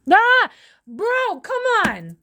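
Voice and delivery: high-pitched yelp of protest; loud cry rising high, then pleading; exasperated outburst. Real, not acted. Tarot reader protesting at what she hears, exasperated.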